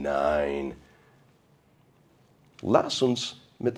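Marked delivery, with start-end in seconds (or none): 0.0-0.8 firm no. Acted. Rejects the Christians' attitude.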